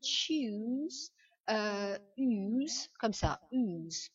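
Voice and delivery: "choose" with a drawn-out oo and z; long oo. Shown as a demonstration. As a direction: stretch "choose", then its ending "use" alone. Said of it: "Imaginez que le". (« choose » avec un ou long et un z)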